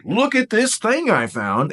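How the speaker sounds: high, eager mock excitement; eager kid-like enthusiasm; excited show-and-tell. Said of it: "start to tell you about this cool thing I found".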